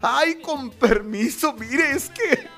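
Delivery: slow, mock tearful pleading; hammed-up breaking voice to get through the crowd; fake crying. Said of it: "empieza a llorar, a quebrar su voz". (llanto fingido, voz quebrada y lenta)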